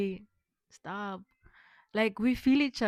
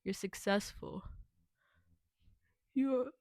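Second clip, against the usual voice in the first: affirmations; 3 semitones lower than usual. Acted.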